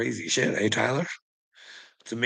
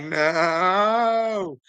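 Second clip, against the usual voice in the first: flat refusal; 7 semitones higher than usual. Retold or imitated. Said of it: "And you're like".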